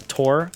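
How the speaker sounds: tour said as "tore", rising; alternative pronunciation of tour. Shown as a demonstration. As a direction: try tour as one syllable, "tore". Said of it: "Is that how you're supposed to say it?".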